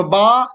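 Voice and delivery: "با" with the "aa" lengthened; drawn-out vowel. Shown as a demonstration. Teacher recapping the alif sound, "با" drawn out. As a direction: hold the vowel in "با". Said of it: "اس کو کھینچ کر پڑھتے ہیں".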